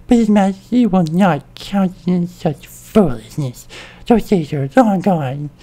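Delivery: upset. Acted. Advisor furiously rejects the king's pact, loud and heated. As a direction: angrily scold the young king. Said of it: "She's upset".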